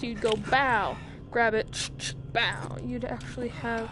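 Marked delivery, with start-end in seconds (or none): 0.5-2.8 gunshot noise. Shown as a demonstration. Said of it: "spooked like this".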